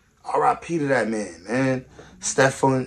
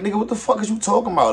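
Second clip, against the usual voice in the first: mock incredulous retort; 8 semitones higher than usual. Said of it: "you respond like".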